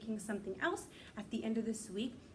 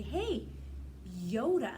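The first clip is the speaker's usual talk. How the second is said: greeting Yoda; slower than usual. Acted. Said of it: "if you're a Star Wars fan, you also can say".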